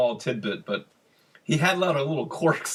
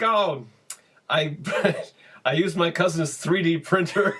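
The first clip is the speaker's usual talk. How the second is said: laughing proud; 6 semitones higher, slower than usual. Retold or imitated. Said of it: "Phil's like".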